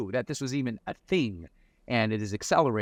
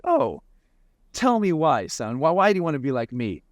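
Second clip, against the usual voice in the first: delighted dad; 6 semitones higher than usual. Retold or imitated. Dad's delighted reply to son.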